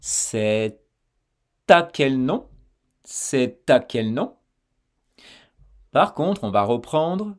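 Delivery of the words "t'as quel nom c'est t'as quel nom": "t'as" sounded with a loud t in front; liaison demo. Shown as a demonstration. Teacher to learner, showing the consonant that now sounds. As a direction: punch the t of "t'as". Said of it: "on va entendre cette consonne".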